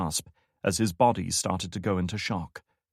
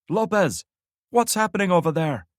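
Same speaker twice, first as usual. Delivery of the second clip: much higher, louder crackling radio call; harsh radio voice; 10 semitones higher, 6 dB louder than usual. A narrator's reading. Radio commander calling his missing man, harsh and crackling. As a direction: bark it through a crackling radio. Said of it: "A harsh voice crackled from the".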